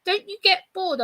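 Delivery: lightly mimicked driver asking; incredulous driver. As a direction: pitch it up in mock disbelief. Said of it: "He goes".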